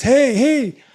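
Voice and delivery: high, loud whiny little voice; Art Davie. Retold or imitated. Teller imitating the wormy casting-type promoter, whiny and high. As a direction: mimic a whiny promoter calling out. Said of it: "Art's got this whiny little voice".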